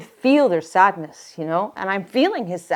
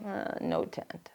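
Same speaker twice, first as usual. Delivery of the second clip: flat deadpan report; 2 semitones lower, 13 dB quieter, slower than usual. Retold or imitated. Searchers report failure by phone.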